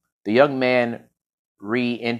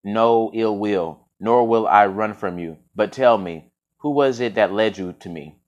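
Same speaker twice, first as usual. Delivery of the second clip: voice like golden honey. Acted. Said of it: "in a voice like golden honey".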